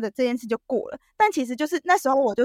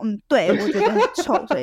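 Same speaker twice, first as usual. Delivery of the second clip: laughing answer; 3 dB louder than usual. Retold or imitated. Retold blunt answer, laughing.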